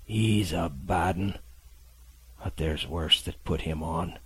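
slow, feeble sea-dog voice; a dying captain warning the boy; weak old sailor. Acted. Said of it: "weakness of the voice".

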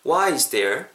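"Why is there" run together as one unit; linked sounds. Shown as a demonstration. Teacher showing linking, "Why is there" joined smoothly. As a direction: glide from "Why" straight into "is there". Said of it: "한번 따라해 보실까요?".

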